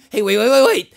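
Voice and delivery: loud, insistent plea to hold on; urgent interjection. Acted. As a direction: cut in loudly, desperate to be heard. Pleading to be heard out.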